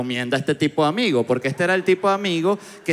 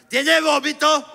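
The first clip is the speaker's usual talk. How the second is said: much higher, louder strange voice; odd doctor; 11 semitones higher, 4 dB louder, slower than usual. Retold or imitated. Strange doctor asks patient about cough, high odd voice. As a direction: ask like a weird robotic doctor.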